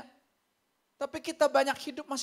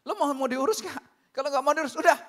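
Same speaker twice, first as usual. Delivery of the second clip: raised, mildly heated re-enactment; retold anger; 3 semitones higher, 4 dB louder than usual. Pastor telling off a caller, mock angry. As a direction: imitate your own exasperated telling-off. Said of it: "jadi saya marah juga".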